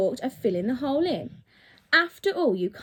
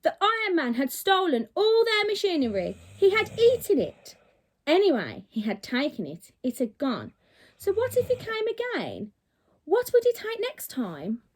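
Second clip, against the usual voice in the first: angry farmers; 4 semitones higher than usual. Acted. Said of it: "the furious farmers began to shout".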